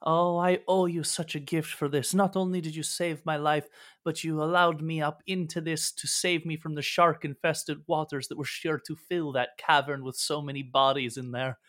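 a grateful, bewildered sea creature far from home; sea creature NPC. Acted. GM voicing the rescued sea creature to the party, lightly lifted and wondering.

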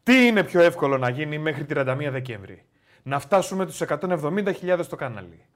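composed poll question, firm opening; straight-faced, deliberate question reading; serious read-out. Real, not acted. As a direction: read it out seriously, like a formal announcement. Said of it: "Ωραία, πάμε σοβαρά".

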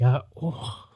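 mock satisfied sigh. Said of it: "he'd be like ... like it was good".

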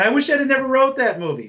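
high, loud whiny mock of her regret; mocking Amy Schumer. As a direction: parody her as petulant and self-pitying. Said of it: "Now she's saying".

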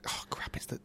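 low, hushed grumble to himself; dreading a call. Pretend. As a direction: play-act reluctance to pick up, under your breath. Dreading his father-in-law's call.

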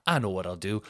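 mock lad voice. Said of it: "that's a wonderful sentence".

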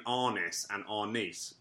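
Arnis said two ways, one after the other; two pronunciations contrasted. Shown as a demonstration. Host reads listener's question on pronunciation, two contrasted pronunciations. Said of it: "that pronounces it like that".

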